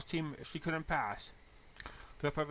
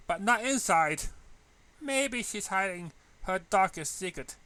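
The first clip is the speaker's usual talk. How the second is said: bubbly Pinkie voice; 7 semitones higher, 8 dB louder than usual. Acted. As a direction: tease about a friend's secret in a bouncy voice. Pinkie gossiping playfully.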